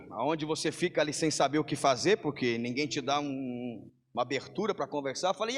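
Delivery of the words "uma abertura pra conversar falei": ordinary talk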